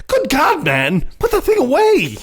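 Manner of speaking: high, laughing shocked cry; laughing mock outrage. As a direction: blurt it out through laughter. Retold shocked character on phone.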